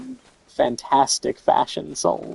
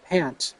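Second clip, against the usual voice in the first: mock panting; 5 dB quieter than usual. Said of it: "reading NPC line aloud".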